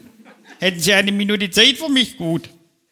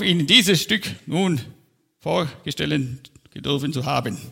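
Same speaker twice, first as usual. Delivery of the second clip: solemn, stilted speechmaker holding forth; pompous speech. Acted. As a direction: play the self-important master of ceremonies. Parody of pompous festive speech. (gespreizter Festredner-Ton)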